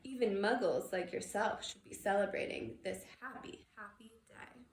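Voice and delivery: put-on a cheerful old stranger rejoicing; joyful old man. Old man's joyful greeting.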